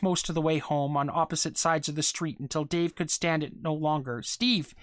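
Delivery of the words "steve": higher, restrained call. A narrator's reading. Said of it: "he called".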